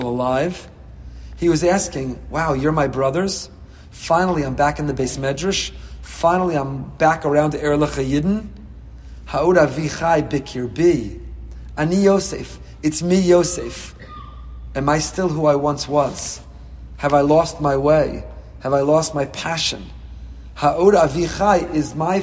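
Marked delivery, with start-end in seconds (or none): none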